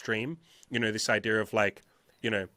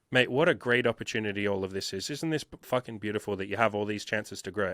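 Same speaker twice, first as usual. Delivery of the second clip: serene mentor; 4 semitones lower than usual. Retold or imitated. Spiritual mentor voiced, serenely reframing problems.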